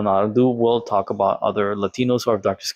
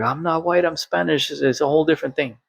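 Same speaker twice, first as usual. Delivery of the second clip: higher, fast indignant retort; mock angry protest; 5 semitones higher than usual. Argentine student insisting he's Spanish, higher, fast, mock angry. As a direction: play his huffy denial, pitched up and hurried. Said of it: "And he got angry".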